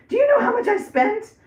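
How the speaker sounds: high, loud exasperated squawk; mock daughter yelling about the price; daughter's outburst. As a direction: play the daughter shocked at the bill, high and loud. Daughter quoted, upset about cost.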